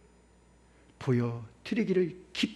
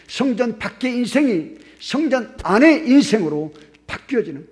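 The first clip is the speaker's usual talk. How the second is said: impassioned preaching; 3 semitones higher, 7 dB louder than usual. Acted. Preaching rising to climax.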